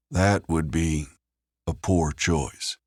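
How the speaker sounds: understated, cold threat, slowing at the end; chilling warning. A narrator's reading. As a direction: warn him coldly, drawing out the last words. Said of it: "The tone of Caleb's voice chilled Leon".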